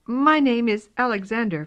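high little kitten voice, curious; a timid kitten asking. Acted. Kitten talks.

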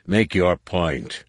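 slow, cold command; glaring impatience. Acted. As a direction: bite each word out slowly. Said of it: "the War Master glared".

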